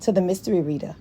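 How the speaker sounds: chuckling welcome, brisk; amused fast welcome; laughing intro. Real, not acted. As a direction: laugh through the greeting.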